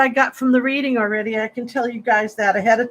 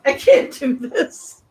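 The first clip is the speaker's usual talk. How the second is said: laughing through tears, slow and wobbly; choked up; slower than usual. Real, not acted. Host thanking loyal subscribers, choked up and laughing through tears. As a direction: let the thanks crack into teary laughter. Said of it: "Now I'm, I'm gonna cry".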